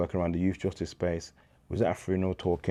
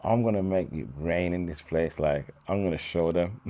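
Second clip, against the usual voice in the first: mock bravado. Boasting to himself at bar.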